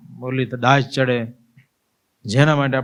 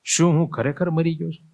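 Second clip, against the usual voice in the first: stunned self-question; 5 semitones higher than usual. Acted. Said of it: "મેં મારી જાતને પૂછ્યું".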